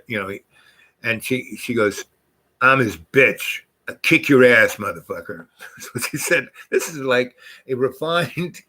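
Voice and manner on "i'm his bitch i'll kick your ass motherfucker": tough taunt. Retold or imitated. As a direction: punch it hard, then drop off on the last word. Voicing wife's tough taunt.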